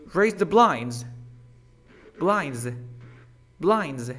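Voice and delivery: blinds with a buzzing z at the end; final S as Z. Shown as a demonstration. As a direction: model blinds firmly, voiced z ending. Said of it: "Como Z".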